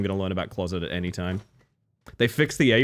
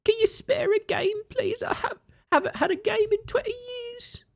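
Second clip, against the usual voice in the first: tiny squeaky urchin voice, much higher throughout; Victorian starving child. Pretend. Streamer begs the game for a controller as a Victorian starving child. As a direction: beg like a starving little street urchin. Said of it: "You're going for Victorian starving child".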